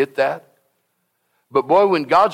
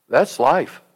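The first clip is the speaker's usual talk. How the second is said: demo gasp. Shown as a demonstration. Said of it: "Hey, just take a breath".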